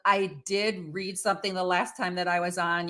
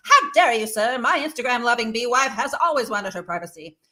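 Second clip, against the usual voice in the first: mock indignant prince; 3 semitones higher, 3 dB louder than usual. Prince indignantly answers host.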